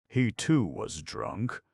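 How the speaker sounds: slow, rising on too; surprised question. Acted. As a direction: ask it in surprise. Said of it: "repeated as question".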